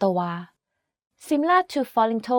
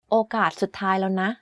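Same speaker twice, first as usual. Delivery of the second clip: softer with นะ; 2 semitones lower, much faster than usual. Shown as a demonstration. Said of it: "The sentence becomes a lot softer and gentler".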